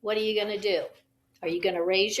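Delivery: soft question. Shown as a demonstration. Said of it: "if your partner says bib".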